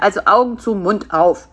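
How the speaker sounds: firm, matter-of-fact command; ordering. Acted. Spider tells fly to get ready for feeding, ordering. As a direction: give the order briskly. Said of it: "befahl Karl-Heinz".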